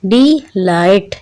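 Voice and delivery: डिलाइट slowly split as डि-लाइट; syllable by syllable. Shown as a demonstration. Teacher introducing डिलाइट to children in two syllables, syllable by syllable. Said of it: "इसके टू syllables हैं".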